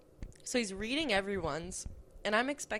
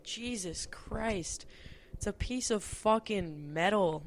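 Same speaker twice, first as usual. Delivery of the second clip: exasperated mutter; 2 semitones higher, slower than usual. Retold or imitated. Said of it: "I'm like".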